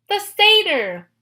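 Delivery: high, loud shout; shrieking loud accusation; yell. Acted. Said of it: "Clarice yelled".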